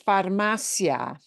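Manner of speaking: farmacia as far-MA-cia; stress before the ending. Shown as a demonstration. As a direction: punch the "ma" in farmacia. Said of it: "the syllable that we punch harder".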